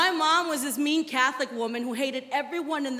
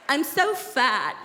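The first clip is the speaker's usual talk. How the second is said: fishing for compliments; much slower than usual. Retold or imitated. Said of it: "they're like".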